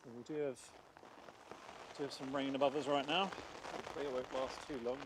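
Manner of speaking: muffled, mic covered by hand. Real, not acted. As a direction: speak through a covered microphone. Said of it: "the sound's a bit muffled 'cause I'm covering the".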